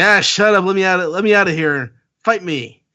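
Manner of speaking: hammed-up furious demand to be let out; Luffy yelling. Reading Luffy's line to friends, a hammed-up angry yell. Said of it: "He's like".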